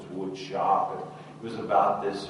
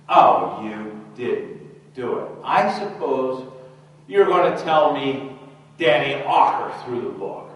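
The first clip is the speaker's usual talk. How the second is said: loud, high mock teacher sarcasm; scornful disbelief; 5 semitones higher, 8 dB louder than usual. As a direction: pounce on the excuse with loud scorn. Stern teacher mocks the boy's denial.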